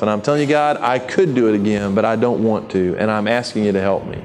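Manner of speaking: an honest, humble prayer; sincere prayer. Shown as a demonstration. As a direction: pray it plainly and sincerely, asking for help. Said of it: "Go to God and say".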